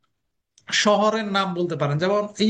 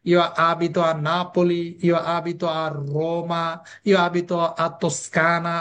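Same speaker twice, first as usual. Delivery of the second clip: slow drill; 3 semitones lower, slower than usual. Shown as a demonstration. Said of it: "কি বলবো?".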